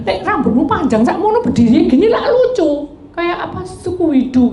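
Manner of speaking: high, giggling tease about the hair; laughing teasing quote. Retold or imitated. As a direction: laugh through the teasing remark. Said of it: "terus yang satunya bilang".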